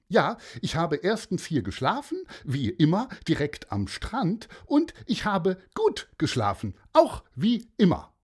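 hoch und laut ausgerufene Morgengrüße; fröhlicher Mann. Acted. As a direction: das Meer überschwänglich laut begrüßen. Mann antwortet Pieper. (Mann im Schlafanzug grüßt das Meer, hoch und laut)

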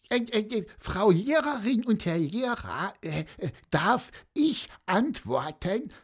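very high, hesitant little squeak; squeaky peep. A narrator's reading. Pieper asking both teachers to answer, squeaking. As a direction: pipe up timidly in a tiny high voice. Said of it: "piepste Pieper".

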